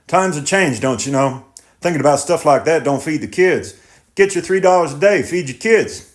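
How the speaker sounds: defensive and pleading; tractor driver voice. Acted. Driver dismisses the worry.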